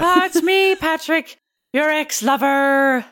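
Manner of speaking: high, slowing down, near crying; hammed-up high lovelorn voice; ex-lover entrance. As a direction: announce yourself as the long-lost lover. Player voices Patrick character.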